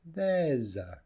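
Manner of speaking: "There's a" drawn out with a buzzing z. Shown as a demonstration. Teacher showing the s is a z, drawn out. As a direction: linger on the z in "There's a". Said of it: "the S is more like a Z".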